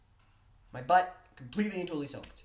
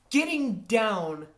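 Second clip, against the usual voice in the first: ordinary delivery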